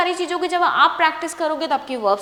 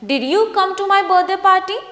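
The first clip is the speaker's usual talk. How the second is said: slow, higher and louder question with a rise; slow model reading; 6 semitones higher, 4 dB louder, much slower than usual. Shown as a demonstration. Teacher modelling a question for students to repeat, slow and clear. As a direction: say it slowly and clearly so students can copy. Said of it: "Try to speak".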